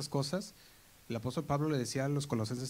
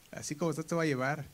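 parent's threat; 3 semitones higher, faster than usual. Retold or imitated. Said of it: "me decía mi papá y mamá".

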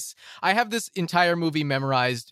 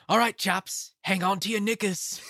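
higher-pitched Cockney movie quote; Cockney accent; 6 semitones higher than usual. Acted. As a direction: quote it like a chirpy Cockney crook. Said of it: "the Cockney accent".

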